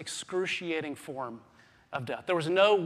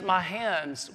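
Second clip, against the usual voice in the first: faded mock cry. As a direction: let the second cry sink. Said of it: "Jesus does not cry out".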